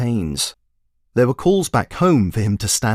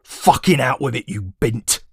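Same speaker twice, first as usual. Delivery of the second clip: snapped; 3 semitones higher than usual. Acted. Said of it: "snapped forward like a coiled snake".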